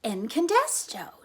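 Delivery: slow, drawn-out reveal; grand reveal. Acted. Flora proudly names the hero to Ulysses. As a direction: unveil the hero's name with awe. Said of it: "she said".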